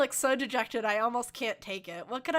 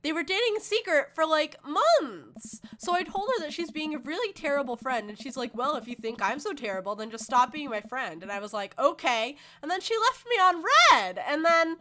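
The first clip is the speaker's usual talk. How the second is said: put-on higher, louder teen outrage with swooping emphasis; ranting teenage daughter; 4 semitones higher, 5 dB louder than usual. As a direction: spill the drama, indignant. Voices Amanda telling her story.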